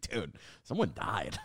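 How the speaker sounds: slow whispered deadpan; mock hushed whisper. Comedian asked about the show, a slow mock whisper. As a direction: hush it like grim gossip.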